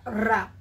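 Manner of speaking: "ra" with the R pulled hard; isolated, exaggerated São Paulo R in "ra"; Paulista R demo. Shown as a demonstration. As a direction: sound out the Paulista R as "ra". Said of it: "já faz assim".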